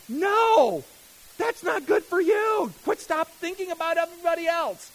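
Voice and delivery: loud high protesting voice; flesh shouting. Retold or imitated. The flesh rising up against giving, shouted high. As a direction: yell it like a selfish inner voice. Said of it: "hear my flesh rise up and say".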